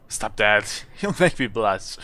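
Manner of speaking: playful protest with a laugh; giggled. Acted. Artificer to the bowing traveller, giggled protest. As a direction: giggle through a coy telling-off. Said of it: "And she giggled".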